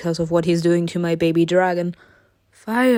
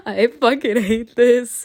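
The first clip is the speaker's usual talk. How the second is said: frustrated; 3 semitones higher, 4 dB louder than usual. Real, not acted. Battle scene frustrates her.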